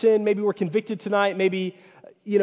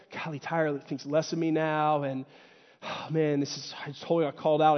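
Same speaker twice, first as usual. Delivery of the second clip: mock sulk; 3 semitones lower, 4 dB quieter than usual. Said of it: "I can just kinda sulk".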